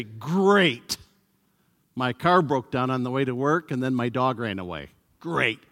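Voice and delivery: dry, sarcastic "Great" over bad news; deadpan sarcasm about a ruined day. Preacher mimics a friend's sarcastic reply, dry and mocking. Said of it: "you say a word that has one meaning, but said sarcastically".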